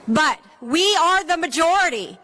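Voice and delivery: firm, emphatic rally line; rally speech. Acted. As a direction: declare it to the crowd. Speaker at a gun-safety rally.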